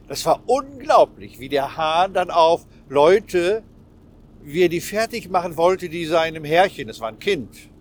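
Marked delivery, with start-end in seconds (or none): 0.1-6.4 excited. Real, not acted. Excited retelling of film scene.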